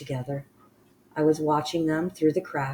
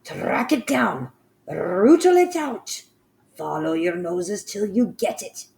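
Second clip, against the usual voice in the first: screaming orders; 5 semitones higher, 6 dB louder than usual. Acted. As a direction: bark orders down from the platform. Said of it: "screamed the Grand High Witch".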